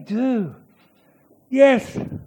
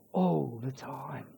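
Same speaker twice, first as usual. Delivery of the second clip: "All the time" voiced, much softer, slow; 8 semitones lower, 15 dB quieter than usual. Preacher repeating "All the time" in a soft, slow voice. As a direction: say "All the time" low and gentle, slowly. Softly repeated after whisper.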